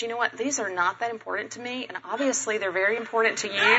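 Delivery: soft, gentle retold kindness; quietly and kindly, imitating a considerate stranger; very nicely. Woman offering the flowers to upset shopper, very nicely. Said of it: "very nicely says to me".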